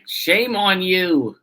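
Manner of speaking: slow, drawn-out reproach; hammed-up tut-tutting; mock scolding. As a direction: stretch it out like a half-serious telling-off. Mock scolding of death squads.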